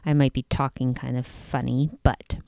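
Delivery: speaking around braces and rubber bands; talking with a retainer. Real, not acted. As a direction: talk as if a retainer fills your mouth. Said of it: "If my voice is sounding a little different than usual".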